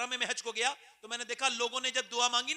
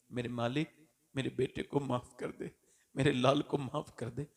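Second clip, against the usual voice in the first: tender plea; 7 semitones lower than usual. Acted. Mother pleading to God.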